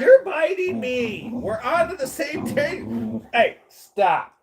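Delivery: real high-pitched yelp of protest; sharp scolding. Real, not acted. Scolds a dog for biting.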